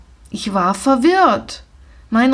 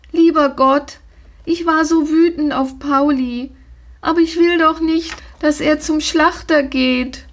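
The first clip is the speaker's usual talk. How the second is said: sobbing; 6 semitones higher than usual. Acted. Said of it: "schluchzte sie".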